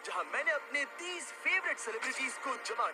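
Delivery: energetic host hyping a preview; announcer promo. Acted. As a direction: build excitement like a big reveal. Presents unreleased video preview. (जोशीले host का अंदाज़)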